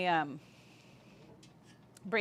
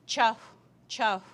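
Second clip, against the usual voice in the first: casual greeting; 2 semitones higher, 4 dB louder than usual. Shown as a demonstration. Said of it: "I wouldn't say".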